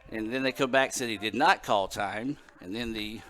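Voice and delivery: out of breath after running up stairs; panting between phrases. Real, not acted. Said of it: "Sorry, I'm out of breath".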